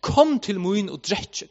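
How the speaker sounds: slow, emphatic retold call. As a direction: call it out slowly, without shouting. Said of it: "han råper".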